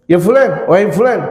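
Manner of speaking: acted lion-voiced hail; lion-like call. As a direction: call out like a commanding caliph. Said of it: "kayak su-, suara singa lagi".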